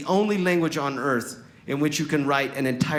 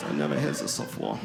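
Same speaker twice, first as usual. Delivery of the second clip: low, softer put-on German accent; 13 semitones lower, 6 dB quieter than usual. Fake foreigner claiming surprise, low mock German accent. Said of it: "I use my accent".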